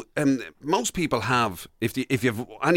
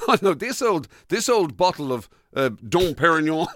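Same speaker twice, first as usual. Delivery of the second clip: mock showing off; 2 semitones higher than usual. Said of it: "As though you kind of".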